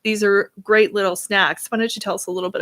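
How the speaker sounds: upbeat radio show host. Acted. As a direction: welcome listeners like a radio host. Hosts radio show and ad read.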